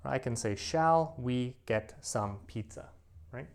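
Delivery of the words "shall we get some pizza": slow, deliberate textbook phrasing; overly formal slow question; slow formal suggestion. Shown as a demonstration. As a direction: say it slowly like a model sentence. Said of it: "Now, I never speak like this".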